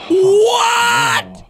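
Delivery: high, drawn-out cry of disbelief; astonished shout. Real, not acted. Viewer reacting to the bat he just created, astonished shout.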